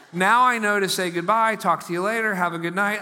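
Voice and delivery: proper goodbye demo. Shown as a demonstration. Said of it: "showing the proper phone goodbye".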